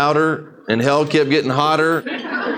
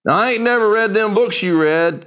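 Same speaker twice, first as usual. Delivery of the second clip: put-on old preacher voice; 6 semitones higher than usual. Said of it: "an old dark-skinned preacher".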